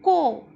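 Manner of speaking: clear, loud syllable model; syllable demo. Shown as a demonstration. Teacher sounding out a syllable for kids, loud and clear. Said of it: "इसे हम किस तरह पढ़ेंगे?".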